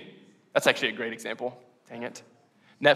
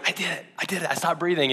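mock alarm; 5 semitones higher, faster than usual. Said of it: "Just point at myself like".

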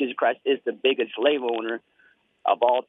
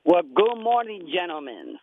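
gushing shopping channel caller; 5 semitones higher, slower than usual. Real, not acted. Caller greets radio hosts.

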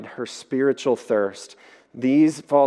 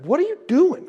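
high squeaky donkey voice, much higher; talking donkey. Retold or imitated. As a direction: play the startled donkey, pitched way up. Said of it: "And the donkey's like".

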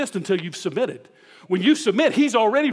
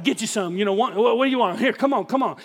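cocky ballplayer taunt; faster than usual. Retold or imitated. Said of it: "He had an attitude about him".

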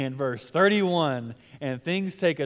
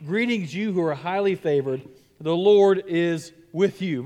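forceful angel. Shown as a demonstration. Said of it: "reread with force".

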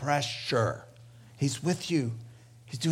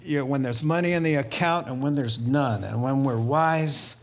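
closing prayer. Acted. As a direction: pray it over the congregation, unhurried.

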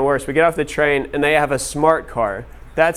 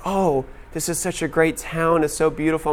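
mock gushing; 4 semitones higher than usual. Local lady gushing to a student about her town, mock gushing. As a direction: lightly imitate a gushing local.

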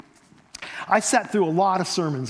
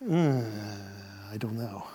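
hesitant; 9 semitones lower, 7 dB quieter than usual. Retold or imitated. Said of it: "you would say".

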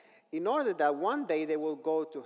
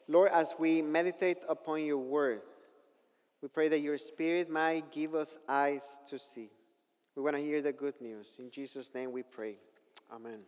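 congregational prayer. Real, not acted. Leads a short prayer.

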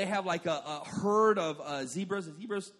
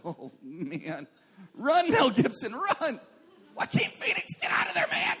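panicked yelling; 5 semitones higher, slower than usual. Retold or imitated. Preacher acting out yelling at the Signs screen in panic. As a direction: yell a warning at the actors as if terrified.

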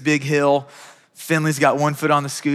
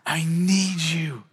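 quiet sincere prayer; 4 semitones higher, much slower than usual. Shown as a demonstration. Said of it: "pray to God".

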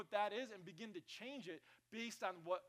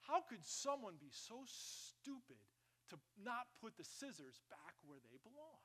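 harsh scolding; 3 semitones higher, 5 dB quieter than usual. Acted. Pastor voicing a harsh scold at home. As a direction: scold the family over the missing scissors. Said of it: "It's just the way that you say it".

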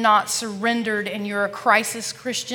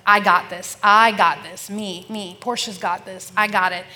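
firm, louder pep talk to herself; determined self-talk; 5 dB louder than usual. Retold or imitated. Alone at urgent care, telling herself she can cope, firm. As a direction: insist you can handle it alone. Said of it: "I'm thinking to myself".

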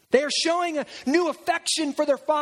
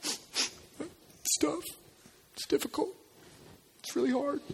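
hushed, breathy fake sympathy; mock sympathy; 9 dB quieter than usual. Brothers fake comforting their weeping dad, hushed. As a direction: whisper it like false comfort. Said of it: "and they're like".

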